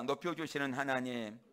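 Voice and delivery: loud, measured line for repeating; call for repetition. Shown as a demonstration. Preacher leading the congregation to repeat after him, loud call. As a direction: lead the congregation in it, firmly. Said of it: "따라합니다".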